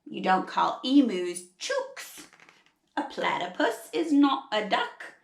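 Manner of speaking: attempted Australian storybook voice; Australian accent. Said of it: "trying really hard to do an Australian accent".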